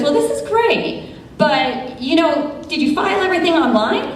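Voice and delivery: high, quick questioning clerk; lightly voiced clerk asking a pointed question; a hint of a polite but pointed clerk; clerk's question. Clerk questions lawyers in courtroom.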